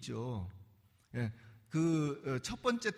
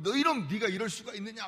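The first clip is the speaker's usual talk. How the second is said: mock scolding; 3 semitones higher, 3 dB louder than usual. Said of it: "호통을 치는 것이".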